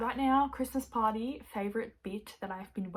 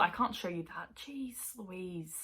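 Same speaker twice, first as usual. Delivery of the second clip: hushed, softer whisper; 6 dB quieter than usual. Real, not acted. Hiding a spoiler page from viewers, whispered.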